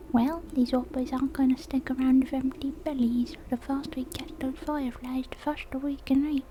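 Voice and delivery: impatient boy in an uncertain put-on accent; frog boy character voice. Frog boy hurries his helper to catch fireflies, put-on voice. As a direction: urge them on in a wobbly, made-up character voice. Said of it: "I don't know what voice I'm doing".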